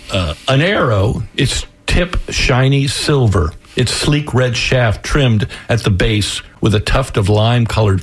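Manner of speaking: measured, slow-paced story reading; story narration. A narrator's reading. Author reading chapter one to the radio hosts, measured narration. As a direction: read it like an audiobook, taking time.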